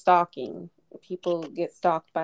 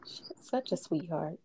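soft fond whisper; 2 semitones lower, 11 dB quieter than usual. Real, not acted. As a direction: whisper it tenderly. Fond aside about her auntie.

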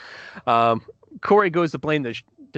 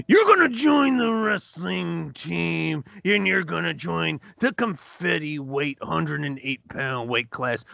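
wrestling promo voice; 2 semitones higher, slower than usual. Acted.

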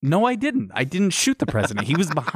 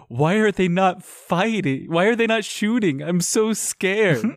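mock scared; 5 semitones higher than usual. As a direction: whimper it like an overacting damsel. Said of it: "She's like".

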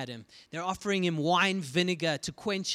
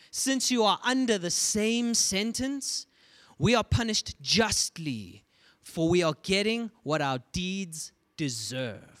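rebuke; 2 semitones higher, 3 dB louder than usual. Acted. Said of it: "the other criminal rebuked him".

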